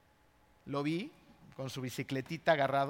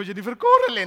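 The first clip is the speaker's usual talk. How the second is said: urgent shout; 5 semitones higher, 12 dB louder than usual. Retold or imitated. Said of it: "Y me dijo".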